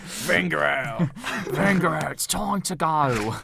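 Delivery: lightly voiced drawn-out fan; Claude impression. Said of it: "Claude from Arsenal fan T V".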